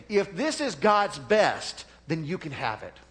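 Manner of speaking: slow words pushed through gritted teeth; bitter and restrained, through clenched teeth. Retold or imitated. Pastor to well-meaning people, through gritted teeth. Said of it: "you can imagine through gritted teeth".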